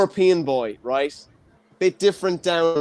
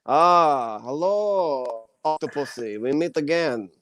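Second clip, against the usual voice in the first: Bond villain; slower than usual. Pretend. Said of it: "a Russian, uh, Bond villain".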